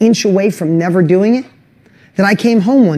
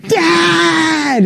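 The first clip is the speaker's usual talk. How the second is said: put-on much higher cry of "Dad," like a baby; toddler calling dad; 10 semitones higher than usual. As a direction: mimic his little boy reaching for dad. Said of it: "my son's like".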